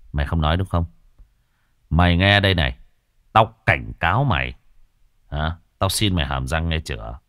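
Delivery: a hint of a stern exorcist's menace; menacing exorcist. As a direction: lean in and warn the spirit coldly. Exorcist threatens the ghost.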